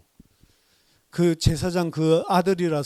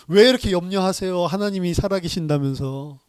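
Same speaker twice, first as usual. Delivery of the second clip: mocking husband; 3 dB louder than usual. Unbelieving husband mocks wife.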